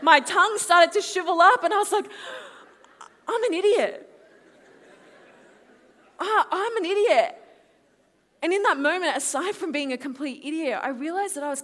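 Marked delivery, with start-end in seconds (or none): 3.3-7.4 high, loud cry of self-reproach; acted-out dismay at oneself; self-exasperated wail. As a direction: berate yourself in comic despair. Acting out her dismay.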